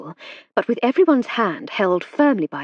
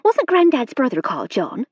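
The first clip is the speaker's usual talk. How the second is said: excited; 6 semitones higher, 4 dB louder than usual. A narrator's reading.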